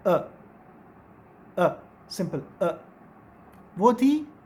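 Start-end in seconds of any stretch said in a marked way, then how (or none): 1.6-2.8 अ said slowly and lower; slow schwa. Shown as a demonstration. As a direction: draw out the neutral अ slowly. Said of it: "pronunciation किस तरह से है".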